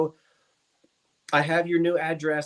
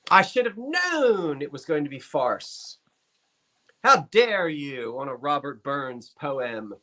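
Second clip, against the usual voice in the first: mock indignation; slower than usual. Mock outrage at partner's clowning.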